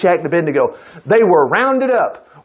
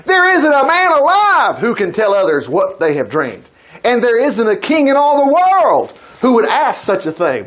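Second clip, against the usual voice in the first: desperate pleading; 5 semitones higher than usual. Acted. Astrologers striving for their life before the king, acted desperate pleading. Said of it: "they're striving for their life here".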